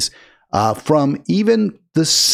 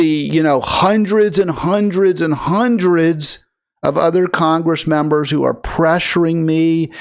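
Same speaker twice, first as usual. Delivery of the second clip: mock apology. The host scripts the congresswoman's apology, lightly contrite. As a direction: voice the apology she should give, lightly sincere. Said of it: "how about you say".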